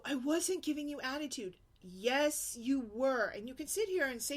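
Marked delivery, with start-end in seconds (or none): 0.0-1.6 higher indignant whine; mock kid denial. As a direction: imitate the daughter denying it. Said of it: "then she'll go".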